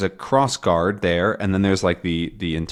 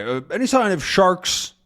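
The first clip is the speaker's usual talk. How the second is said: Haddock; 9 semitones higher than usual. Acted. Haddock voiced.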